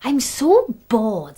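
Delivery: slow, drawn-out boredom. Acted. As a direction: sigh it out, very slowly. Wooden spoon speaks, bored.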